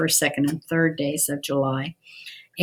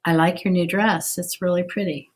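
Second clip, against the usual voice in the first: sincere. Shown as a demonstration. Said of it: "which one I was being sincere".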